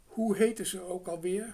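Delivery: curious crow. A narrator's reading. Crow and girl voiced.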